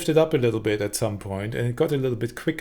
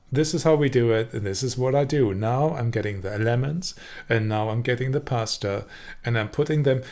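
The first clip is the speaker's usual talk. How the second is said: gliding delivery. Shown as a demonstration. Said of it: "I'm imitating slightly at the moment".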